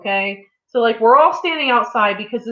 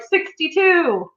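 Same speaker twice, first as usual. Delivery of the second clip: calling numbers; 7 semitones higher, much slower than usual. Retold or imitated.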